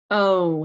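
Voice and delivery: "O" said as a long, loud vowel saying its name; long O sound. Shown as a demonstration. Teacher shows the O saying its name. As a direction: hold the long O clearly. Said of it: "My O was saying".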